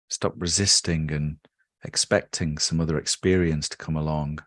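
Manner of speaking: calm, measured meditation guide with long pauses; unhurried guided-relaxation delivery with settling phrase ends. Real, not acted. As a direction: ease the listener into stillness, leaving space between phrases.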